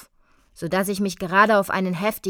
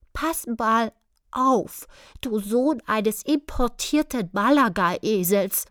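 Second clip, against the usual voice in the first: gritted teeth, higher; through gritted teeth; 4 semitones higher than usual. A narrator's reading. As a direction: speak through clenched teeth. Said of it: "sagte er zähneknirschend".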